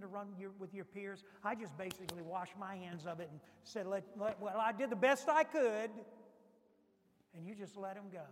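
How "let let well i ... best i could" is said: mock dismissive parent. Parent washing hands, voiced.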